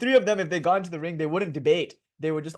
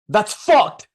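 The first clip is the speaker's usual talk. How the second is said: put-on louder, blunt teen's verdict; indignant teen; 5 semitones higher, 8 dB louder than usual. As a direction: toss it off like a sulky kid leaving. Angsty boy denied a bathroom.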